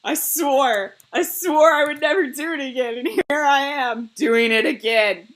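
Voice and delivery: mildly exasperated self-scolding; mad at oneself. Acted. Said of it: "I just get mad at myself".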